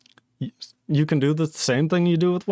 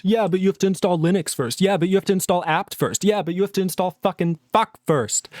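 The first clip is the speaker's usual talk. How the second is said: nagging "yeah, but" parody, pitched higher; mocking sing-song; 3 semitones higher than usual. Streamer mimics Linux users nagging him in a higher whiny voice. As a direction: whine it like a know-it-all who keeps piling on.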